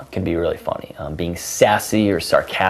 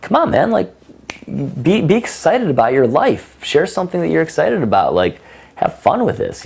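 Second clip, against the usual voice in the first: much higher, pushing pep talk; urging enthusiasm; 9 semitones higher than usual. Retold or imitated. Coach urging a flat student, high and eager. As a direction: fire him up to be excited. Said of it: "And it's like".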